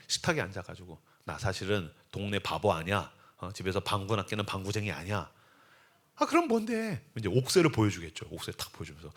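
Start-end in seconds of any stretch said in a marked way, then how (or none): 1.3-5.3 low, soft confiding husband; hushed confession. Acted. Husband revealing himself to his wife, hushed confession. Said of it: "고백을 하는 거죠". 6.2-7.0 lightly voiced wife, pitched up; a hint of an impatient wife. Wife pressing her husband, lightly acted impatience.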